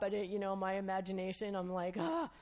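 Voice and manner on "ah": high, startled "ah"; mock gasp of alarm. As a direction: gasp as imagination runs away. Acting out alarm at imagined rebuke.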